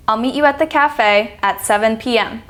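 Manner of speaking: up-and-down tune over "cafe" and "seven P M"; demonstrated rise and fall on "cafe" and "seven P M"; falling-rising intonation. Shown as a demonstration. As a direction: let pitch wave through "meet you at the cafe at seven P M". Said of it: "the phrase goes up and down".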